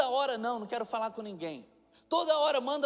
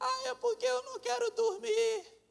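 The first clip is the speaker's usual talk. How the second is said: put-on very high, creaky, whiny toddler voice; 12 semitones higher than usual. Imitating a three-year-old daughter explaining why she cries: whining crying child. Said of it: "tá chorando de novo?".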